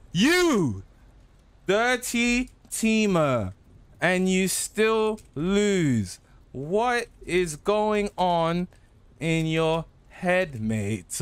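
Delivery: slow, drawn-out mocking; slow taunt. Real, not acted. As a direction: stretch every word to mock.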